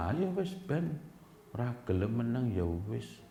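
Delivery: quiet cruel calm. Retold or imitated. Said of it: "Pak kosnya kalau sudah jengkel".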